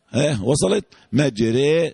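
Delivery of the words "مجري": "مجري" ending in a long open e; demonstrated imala. Shown as a demonstration. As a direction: tilt the last vowel of "مجري" from a toward i. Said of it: "ده اسمها ايه؟".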